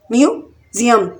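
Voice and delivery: म्यूजियम slowly in two chunks; split into syllables. Shown as a demonstration. Teacher showing learners the syllables, syllable by syllable. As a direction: pause between म्यू and ज़ियम. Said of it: "म्यूजियम में भी three syllable".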